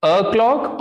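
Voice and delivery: अ क्लॉक opening on a short "uh"; unrounded first vowel in अ क्लॉक, like "uh"; short schwa. Shown as a demonstration. Teacher recaps pronunciation, अ क्लॉक with short "uh". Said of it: "pronunciation clear हो गई".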